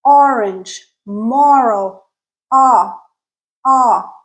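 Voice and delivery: "orange, moral" with rounded aw; tense rounded aw. Shown as a demonstration. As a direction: separate model words "orange, moral", lips rounded on the vowel. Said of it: "It's tense and it is rounded".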